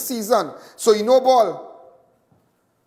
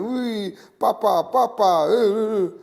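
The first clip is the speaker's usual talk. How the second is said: higher-pitched mock wailing; imitated crying; 4 semitones higher, slower than usual. Venezuelan girl describes his crying son on TV, mock crying. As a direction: pretend to bawl like a child calling for papa. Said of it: "your son crying".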